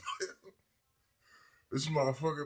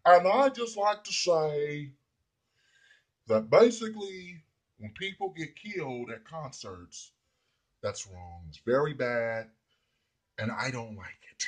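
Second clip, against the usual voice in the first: slow, drawn-out mock presidential voice, dropping to a whisper at the end; hammed-up slow Trump speech; 2 semitones higher, 5 dB louder, slower than usual. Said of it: "Trump just got motherfuckers all fucked up".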